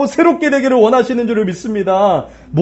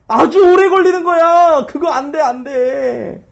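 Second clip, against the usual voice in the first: taunting Satan; 4 semitones higher than usual. Acted. Satan discouraging the builders.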